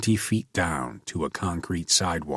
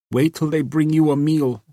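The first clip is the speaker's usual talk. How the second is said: put-on bitter girl; 8 semitones higher, 4 dB louder than usual. A narrator's reading.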